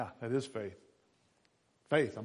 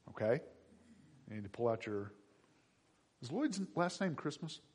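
usual speaking voice

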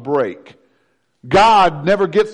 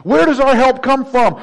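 calling out louder and higher, building; rising urgent questions; 6 semitones higher, 5 dB louder than usual. Acted. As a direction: cry out each question, climbing. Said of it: "I wouldn't have said church".

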